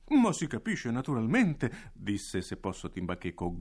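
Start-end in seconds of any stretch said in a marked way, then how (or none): 0.1-1.9 voce acuta, compiaciuta e lenta; direttore gongolante. Acted. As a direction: gongola mentre rassicura la maestra. (il direttore gongola con la maestra, voce acuta)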